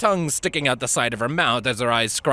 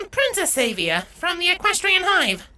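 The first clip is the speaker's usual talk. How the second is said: proud introduction. A narrator's reading. Avia introduces herself.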